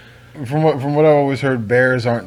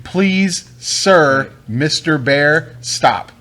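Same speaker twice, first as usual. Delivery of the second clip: polite plea; 2 semitones higher, much slower than usual. Retold or imitated. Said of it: "you have to be polite to them".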